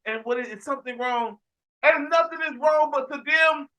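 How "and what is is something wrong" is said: quiet, patient asking; softer patient dad. Retold or imitated. Dad pausing his game for his kid, quietly patient. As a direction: gently check on the kid. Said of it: "You have to go like this".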